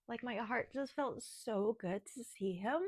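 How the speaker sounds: slow, tearful, voice catching; soft and fragile through tears; choking up. Real, not acted. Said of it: "I'm still choking up".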